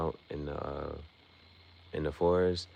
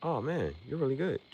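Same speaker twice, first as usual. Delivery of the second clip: high, quick, hammed-up compliment; mocking fighter praise; 9 semitones higher than usual. Mocking the anime fighter praising his rival, high and fast. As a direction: parody the hollow flattery. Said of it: "like, that's how it feels".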